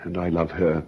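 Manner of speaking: soft, low resignation; quietly heartbroken; sad and quiet. Acted. Sad talk about his wife.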